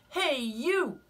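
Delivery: high, loud, grumpy bug; grouchy ladybug voice. Acted. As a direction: bark the challenge up high. Ladybug challenges rhino.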